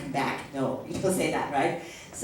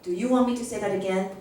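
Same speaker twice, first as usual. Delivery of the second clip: quick teacher question; faster than usual. Shown as a demonstration.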